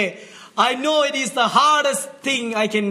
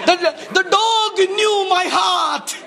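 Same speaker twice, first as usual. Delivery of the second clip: laughing; 5 semitones higher, slower than usual. Real, not acted. Laughing as he tells it.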